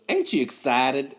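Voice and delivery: a hint of his catchphrase voice; Uncle Joel. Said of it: "that's how he talks".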